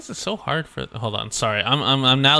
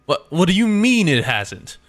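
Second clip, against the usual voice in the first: mildly annoyed British factory worker; hint of a cross character, rising in disbelief; lightly voiced irate game character; 6 dB louder than usual. Streamer voicing a game character chasing a late batch, lightly irate.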